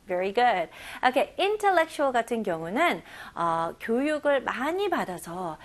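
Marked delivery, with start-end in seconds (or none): none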